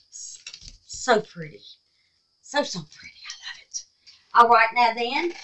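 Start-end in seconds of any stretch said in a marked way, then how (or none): 0.1-3.8 soft admiring murmur. Real, not acted. Admiring gift softly.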